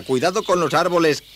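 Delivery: put-on baffled boy rereading; puzzled rereading. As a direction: repeat it in a high, puzzled boy voice. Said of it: "Continúo sin entender".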